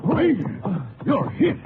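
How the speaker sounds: shouting in alarm. Acted. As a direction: call out urgently to the wounded ranger. Rancher sees ranger shot.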